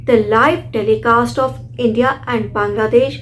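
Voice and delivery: slow, deliberate teacher reading; slow example sentence. Shown as a demonstration. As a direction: read the live telecast slowly and clearly. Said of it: "मैंने इसे pronounce किया live". (धीमी, साफ़ पढ़ाई)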